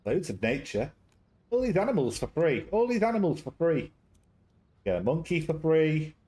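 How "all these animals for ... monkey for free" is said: excited. Real, not acted. Hyping free emotes.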